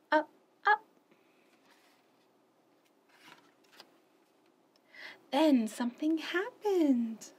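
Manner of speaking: animated picture-book read-aloud; expressive children's story narration. Acted. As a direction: read it like story time for little ones.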